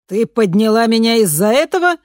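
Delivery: furious at being woken; indignant. A narrator's reading. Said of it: "возмутилась она". (возмущённо, громче)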